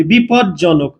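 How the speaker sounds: slow teaching demo of বিপদজনক; slow drawn-out demo. Shown as a demonstration. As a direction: draw বিপদজনক out very slowly. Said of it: "বিপদজনক থেকে মনে করেন এরকম করলাম আমি".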